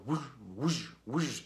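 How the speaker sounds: whooshing volume-swell noise; imitated whoosh. Reviewer showing the producer's volume-knob style, imitated whooshes. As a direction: mimic a sound swelling in and out. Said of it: "taking the sound and going".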